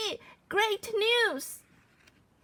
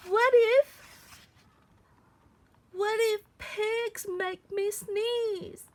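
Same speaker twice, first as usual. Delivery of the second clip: worried; 4 semitones higher, 3 dB louder than usual. Acted. Growing panic.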